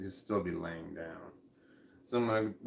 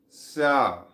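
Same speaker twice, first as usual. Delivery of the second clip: mock announcement; 6 dB louder, slower than usual. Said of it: "announcing his plan grandly".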